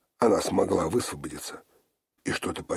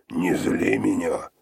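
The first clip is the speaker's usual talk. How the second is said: menacing warning; 6 dB louder, slower than usual. A narrator's reading. Sister threatening Olga.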